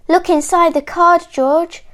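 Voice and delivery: high, quick, loud prompt; animals' keen storybook call; eager urging. A narrator's reading. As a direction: hurry a friend along excitedly. Animals eagerly urge George.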